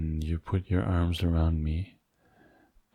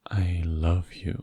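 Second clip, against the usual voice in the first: intimate whisper. Acted. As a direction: whisper it close and tender. Repeated declaration, second whispered.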